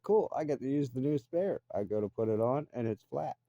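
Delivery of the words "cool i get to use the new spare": lightly raised, cheerful put-on voice; a naive little gladness; mock eager past self. Retelling his flat tire, lightly voiced eager self. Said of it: "I'm like".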